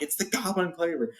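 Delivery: high, frightened goblin voice; scared goblins. Retold or imitated. Goblins recognising the Goblin Cleaver, high frightened voice. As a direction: cry it out like terrified goblins. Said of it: "They're like".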